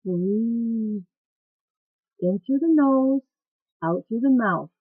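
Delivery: lightly imitated fitness coach, spaced out and lifted; coach's instruction. Coach telling a class how to breathe, mildly imitated. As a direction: quote a coach's breathing cue in measured phrases. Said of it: "where the coach has told us".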